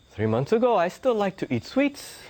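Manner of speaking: chuckling through the punchline; laughing guru. Retold or imitated. Guru admitting to his apprentice with a laugh. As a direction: let the laugh break in at the end. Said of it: "he looks at him and goes".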